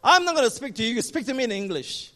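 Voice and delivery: loud, high rebuke that settles at the end; stern rebuke. Retold or imitated. The preacher refusing to bargain with the demon, stern. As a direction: put the spirit firmly in its place.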